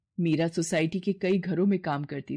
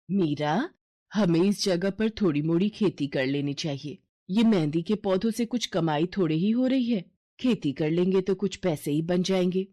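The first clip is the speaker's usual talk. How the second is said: a poor mother gently suggests farming; tired mother. Acted. Kaveri voiced by narrator. (थकी हुई माँ की हल्की धीमी आवाज़)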